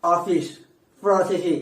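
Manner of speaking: ఆఫీస్ with a true lip-to-teeth F; ఆఫీస్, ప్రాసెస్ as separate model words; native English pronunciation. Shown as a demonstration. Teacher shows how English speakers say it, native pronunciation. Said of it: "generally అలాగే వాళ్ళు పలుకుతారు".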